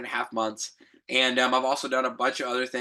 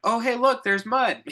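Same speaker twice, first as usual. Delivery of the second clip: put-on much higher and louder, a giddy little kid spotting mud; excited child; 11 semitones higher, 5 dB louder than usual. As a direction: play an eager child who can't resist the mud. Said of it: "I'm so much like a child".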